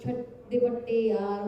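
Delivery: loud, overdone Punjabi accent on the first words; mock heavy Punjabi accent. Shown as a demonstration. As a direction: ham up a thick Punjabi accent. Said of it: "not a heavy Punjabi accent".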